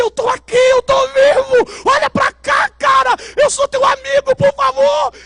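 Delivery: high, loud pleading cries; desperate shouting. Retold or imitated. Spirit shouting at friends reviving his body, high and desperate. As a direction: yell to be noticed.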